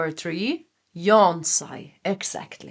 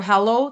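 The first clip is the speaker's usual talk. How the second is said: sighing; 5 dB louder than usual. Shown as a demonstration. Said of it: "Practice sighing short".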